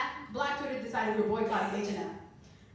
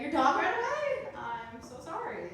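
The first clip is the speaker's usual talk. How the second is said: higher, slow fake sympathy; mock sincere; 5 semitones higher, 4 dB louder, slower than usual. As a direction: ham up heartfelt concern. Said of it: "my voice sounds insincere".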